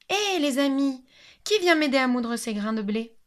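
little hen calling her friends for help. Acted. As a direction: call out to the neighbours cheerfully. Hen calls her neighbours.

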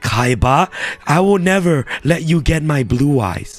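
a hint of an old grandpa, barely shifted; half-hearted try at an old man's voice; sorry Grandpa impression. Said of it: "That's a sorry impression of Grandpa".

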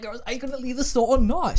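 high sassy demand. Retold or imitated. To the lingering customer, a high sassy demand. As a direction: push her out the door with sass. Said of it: "I was like".

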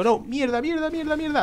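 high, panicked cursing; real alarm as danger hits. Real, not acted. Gamer cursing as a bomb nearly kills him, high panic. About to die in game.

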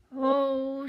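loud, high, drawn-out "oh"; big startled exclamation; alarmed oh. A narrator's reading. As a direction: cry out in sudden alarm. Dragon alarmed by the warning.

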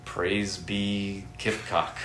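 slow, solemn mock praise; mock religious. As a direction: intone it slowly like cult scripture. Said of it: "gotta make it quasi-religious".

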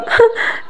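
soft, unvoiced breath out; quiet, unsteady exhalation; uneven exhale. A narrator's reading. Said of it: "زفرت نفسا غير منتظم".

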